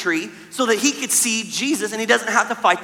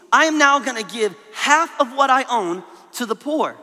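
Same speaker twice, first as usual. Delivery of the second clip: Zacchaeus repenting; 3 semitones higher than usual. Retold or imitated. Zacchaeus promising Jesus to repay, earnest and sincere. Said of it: "This is what Zacchaeus told Jesus".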